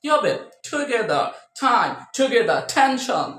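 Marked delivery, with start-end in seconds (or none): 0.7-1.3 "টুগেদার" with a puffed t; aspirated T. Shown as a demonstration. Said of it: "এভাবে বলতে হবে". 1.6-3.3 "টাইম, টুগেদার, টেনশন" with puffed t's; aspirated T. Shown as a demonstration. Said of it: "এভাবে বলতে হবে".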